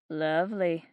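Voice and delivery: low, cool murmur of a haughty lady. Acted. Geraldine greeting Fiona stiffly, a cool low murmur. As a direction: let the word drip with faint disdain. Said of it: "Geraldine murmured".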